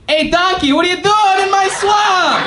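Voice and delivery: loud, hammed-up ogre growling at the donkey; Shrek impression. Scottish friend doing Shrek in a New York accent, hammed-up. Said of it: "he does his best impression".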